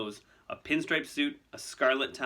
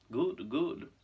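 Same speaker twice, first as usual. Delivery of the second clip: smug, higher murmur of approval; approving; 4 semitones higher than usual. Acted. Malfoy pleased Fudge is here, approving. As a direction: purr it with satisfaction. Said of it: "he said approvingly".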